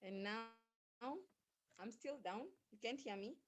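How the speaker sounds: barely audible, far from the mic; weak, distant voice on a bad line; faint voice. Real, not acted. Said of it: "you're very faint".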